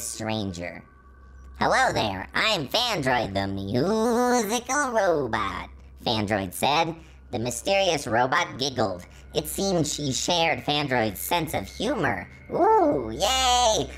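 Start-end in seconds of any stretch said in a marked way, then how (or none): 1.6-5.7 lightly voiced cheerful robot; a hint of a friendly robot introducing himself; Fandroid character voice. 12.5-13.9 high, loud delighted squeal; excited squeal. Real, not acted. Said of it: "I really like this fanfiction".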